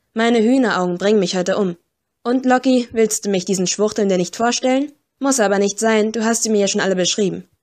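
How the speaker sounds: a hint of a rough, cheeky girl teasing the agents; brash scruffy mudlark. Narrator plays scruffy Flo teasing Kipps, lightly brash.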